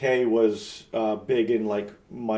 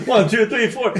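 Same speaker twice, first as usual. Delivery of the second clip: band count-in; 10 semitones higher, 7 dB louder than usual. Retold or imitated.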